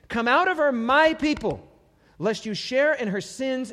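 heavenly call. Acted. Voice from heaven calling out.

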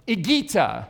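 ordinary talk

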